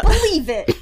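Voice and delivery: high, loud cartoon hero shout; mock Naruto shout; anime catchphrase. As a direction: yell it like a cocky anime kid.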